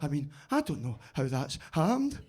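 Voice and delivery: puzzled, stretching the words in mock amazement; constantly surprised. Dim workmate who is constantly surprised, baffled. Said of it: "like, constantly surprised".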